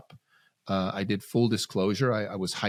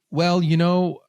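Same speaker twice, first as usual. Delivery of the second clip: attempted Australian accent; 8 semitones higher, 6 dB louder, slower than usual. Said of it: "I wish I could do an Australian accent".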